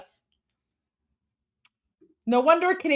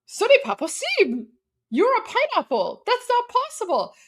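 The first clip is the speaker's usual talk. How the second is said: put-on child reciting; 9 semitones higher than usual. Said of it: "And I'm like".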